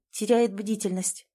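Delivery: usual speaking voice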